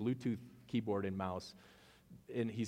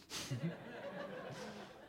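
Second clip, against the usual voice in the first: high laugh; 13 semitones higher, 9 dB quieter than usual. Real, not acted. Pastor laughing at the retort he wished he'd told the rep, giggling high. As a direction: burst of high, breathy laughter.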